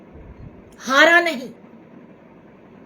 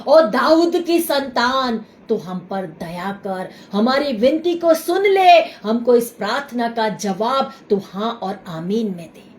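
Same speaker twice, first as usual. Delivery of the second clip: crying out in prayer; 3 semitones lower than usual. Pretend. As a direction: call out to the Lord, then plead. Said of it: "और जोर से चिल्लाना".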